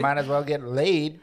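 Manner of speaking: put-on southern-accented punchline. Grandfather's advice to a gaming kid, southern accent. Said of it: "he's talking with a southern accent".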